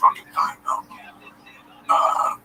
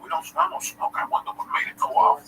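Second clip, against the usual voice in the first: lightly voiced crew, playing innocent; a hint of a crew member faking ignorance; mocking flight crew. Crew voiced in retold story.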